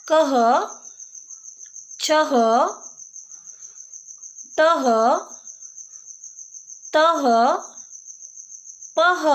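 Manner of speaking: कह, छह, तह, पह each with a half ह breath at the end; reading visarga syllables. Shown as a demonstration. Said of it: "तो अब मैं पढ़ती हूँ".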